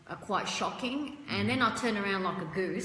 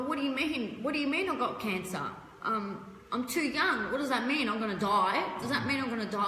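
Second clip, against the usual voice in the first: higher, anxious rush of questions; retold panic; 4 semitones higher than usual. Retelling her shock to the doctor, panicked questions. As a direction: replay the disbelief at the diagnosis.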